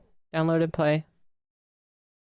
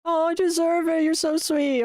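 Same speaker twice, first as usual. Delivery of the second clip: touched thanks; 8 semitones higher than usual. Real, not acted. Streamer touched by viewer praise.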